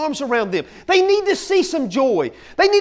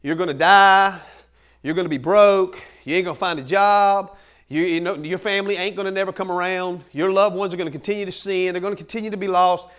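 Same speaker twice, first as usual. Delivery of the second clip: devil lightly voiced, in a lower register; low, understated voice of the accuser; taunting devil; 7 semitones lower than usual. Devil listing troubles to the believer, lightly voiced taunts. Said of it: "if the devil comes to you and says".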